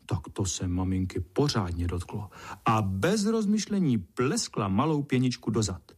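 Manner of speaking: plain reading voice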